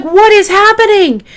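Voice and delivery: high-pitched, bewildered outcry; confused. Retold or imitated. Mother hears nothing back from Mark, retold as confused. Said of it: "she is so confused".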